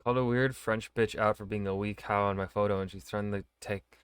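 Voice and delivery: stumbling attempt at a Scottish accent; botched Scottish accent. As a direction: read it out in an unsure Scottish accent. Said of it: "how to do a Scottish accent".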